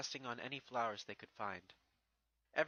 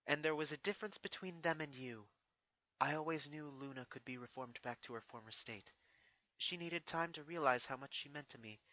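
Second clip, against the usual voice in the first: put-on higher, stately princess addressing her old enemy; regal princess voice; 3 semitones higher than usual. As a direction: speak down to a defeated foe, proud and composed. Narrator voices Celestia.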